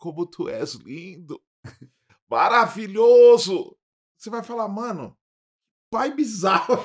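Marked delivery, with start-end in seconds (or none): 0.0-3.8 slow, tearful acted crying, sobbing words. Describing two people on their knees before an altar, mock crying while speaking. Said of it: "chorando e falando".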